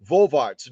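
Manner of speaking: Vorwärts said the German way, "FOR-verts"; German word Vorwärts. Shown as a demonstration. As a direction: teach Vorwärts. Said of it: "the little V".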